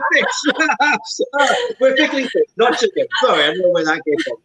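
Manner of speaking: high giggly laughing. Real, not acted. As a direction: laugh through the correction. Laughs at own slip.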